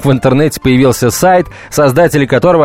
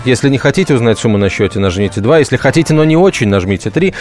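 automated phone menu, deadpan. Retold or imitated. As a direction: read it like a bank robot. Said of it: "робот общается".

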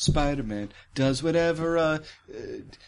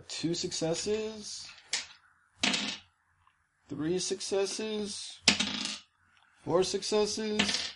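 quiet slow count; 6 semitones higher, 7 dB quieter, much slower than usual. Real, not acted.

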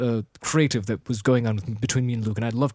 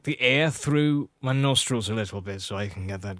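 mannered, nasal Jack Sparrow impression; nasal pirate voice. Shown as a demonstration. Host explains the impression while doing it, nasal pirate voice. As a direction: push it through the nose. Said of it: "it's supposed to come from the nose".

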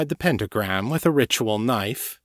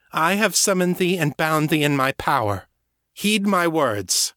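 commanding; 6 semitones higher than usual. Acted. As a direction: lay down the binding words. Sorceress binding the demon.

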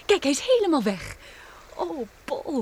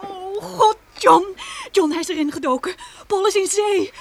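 tearful, high and louder cries; crying; 6 semitones higher, 4 dB louder than usual. Acted. Wife tells John that Paul dived in, crying. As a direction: sob out the news. Crying after husband dives.

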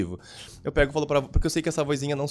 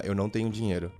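lightly voiced inner doubt, lower and softer; little inner voice; 7 semitones lower, 5 dB quieter than usual. Inner voice telling someone there is no money, low little voice. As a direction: say it low, like a small nagging thought. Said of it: "vem uma vozinha".

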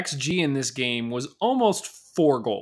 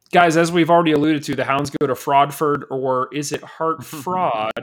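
louder, crisp news-anchor delivery; BBC reporter read; 6 dB louder than usual. Acted. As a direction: read it like a BBC newsman, announcing the trip. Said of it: "sounded like you were in training for, like, a B B C reporter".

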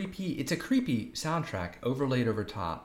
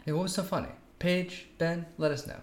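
higher-pitched mock appeal to absent people; playful demand; 7 semitones higher than usual. Podcaster to the film's characters about their laughing, playful demand. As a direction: call on them teasingly for an answer.

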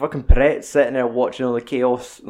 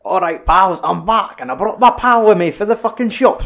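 hammed-up, higher swaggering thug; lightly voiced random thug arriving to pick a fight, a bit higher; tough-guy entrance; 7 semitones higher, 5 dB louder than usual. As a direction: announce yourself like a cocky heavy. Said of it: "is like".

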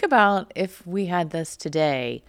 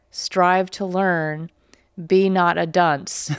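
put-on slow, measured reading of a children's lesson; slow recitation; much slower than usual. Host reading the primer's lesson to viewers, slow and deliberate. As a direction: spell each command out like a schoolroom drill.

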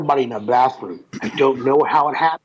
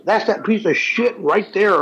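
mock outrage, pitched up; higher-pitched retold tirade, not shouted; retold angry cussing; 6 semitones higher than usual. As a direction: imitate an old man cussing someone out. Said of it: "this old man cussing at me".

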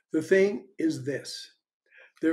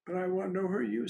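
echo; 3 semitones higher, 5 dB quieter, much faster than usual. Retold or imitated. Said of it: "said the voice".

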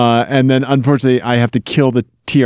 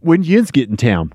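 Pennsylvania accent. Shown as a demonstration. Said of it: "I can do Pennsylvania".

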